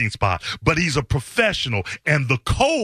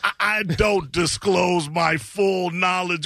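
mocking; slower than usual. Repeating the troll's claim mockingly.

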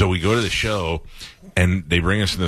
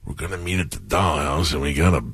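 Randy Savage; 3 semitones lower than usual. Acted. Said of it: "I love talking as Randy".

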